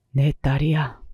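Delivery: husband's subdued admission; understated, resigned reveal; resolved confession. A narrator's reading. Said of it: "뭔가 다짐한 듯한 얼굴로".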